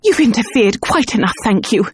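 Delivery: high, fast indignant scolding. Acted. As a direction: yap at him indignantly. Yapping terrier confronts wolfhound.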